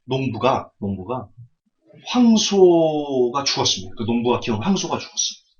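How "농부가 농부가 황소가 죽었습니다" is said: slow solemn. Shown as a demonstration. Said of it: "slow first telling, then repeated".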